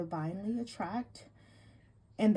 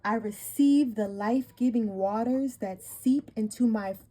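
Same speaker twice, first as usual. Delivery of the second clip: slow, solemn card reading; warm serene goddess voice; slower than usual. Acted. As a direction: read it like a sacred invocation. Reads goddess card text aloud.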